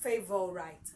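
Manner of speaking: "favorite" as fave-ol-rite, low; wrong pronunciation. Shown as a demonstration. Teacher mimicking learners' mistake, "favorite" ending like "right". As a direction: say "favorite" with a long final "rite". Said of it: "or whichever way you have been pronouncing it".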